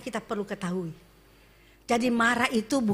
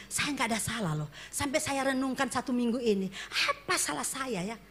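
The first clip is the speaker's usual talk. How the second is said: puzzled quote; 7 dB quieter than usual. Retold or imitated. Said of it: "katakan begini".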